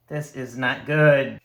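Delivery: loud, slow, dismayed. Real, not acted. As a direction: groan it out loud at the dice. Dice going badly, repeated.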